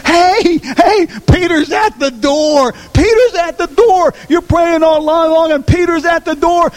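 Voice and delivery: high, eager insisting cry; excited servant girl. Retold or imitated. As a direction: beg them to listen, it's really Peter. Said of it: "when she comes and says".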